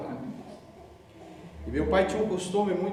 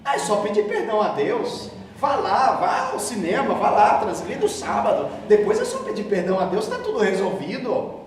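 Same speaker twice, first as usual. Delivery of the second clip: mocking careless attitude. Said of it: "o conceito de perdão que as pessoas têm".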